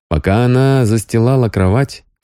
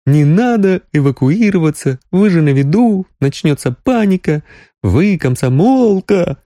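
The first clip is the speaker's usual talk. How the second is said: mocking officials; 11 semitones higher than usual. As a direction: mimic the officials' preachy tone. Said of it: "передразнила она".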